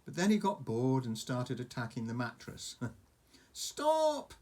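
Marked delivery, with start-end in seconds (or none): 3.5-4.3 high, sharp cry; yelled. Acted. Hiccup yelling at Toothless wrecking the mattress. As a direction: yell it to stop the dragon. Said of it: "yelled Hiccup".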